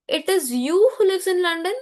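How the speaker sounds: "you" lifted high as a question; question tune. Shown as a demonstration. Teacher translating the French example, questioning lift on "you". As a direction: raise "you" to ask it. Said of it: "Question mark".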